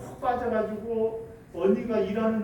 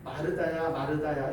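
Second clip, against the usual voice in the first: tender call; 5 semitones lower than usual. Shown as a demonstration. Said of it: "그 마음이 어떠셨을 것 같아요?".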